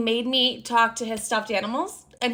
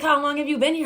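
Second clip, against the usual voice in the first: alarmed question; 5 semitones higher, 4 dB louder, faster than usual. Retold or imitated. Finds ex hiding in bedroom.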